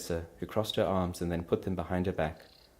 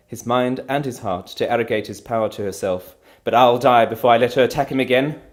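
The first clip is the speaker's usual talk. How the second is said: angry; 5 semitones higher, 13 dB louder than usual. Acted. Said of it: "Piero trembled angrily".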